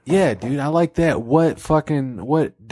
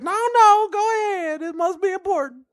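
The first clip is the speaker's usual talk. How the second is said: redneck God. Acted. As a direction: call out high like a redneck. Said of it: "It's some redneck".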